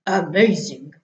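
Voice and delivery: a big beast impressed. Acted.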